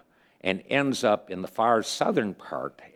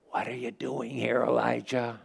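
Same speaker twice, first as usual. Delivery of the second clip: hushed, higher and softer; gentle whisper; 4 semitones higher, 5 dB quieter than usual. Acted. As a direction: ask it gently, almost under your breath. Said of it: "a gentle whisper".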